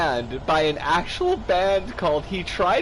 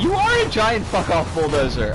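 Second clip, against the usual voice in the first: loud exclamation; 7 dB louder than usual. Real, not acted. Exclaiming at bulldozer.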